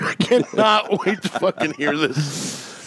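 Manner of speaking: slow, laughing through the words. Real, not acted. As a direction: crack up mid-sentence. Same line, laughing through it.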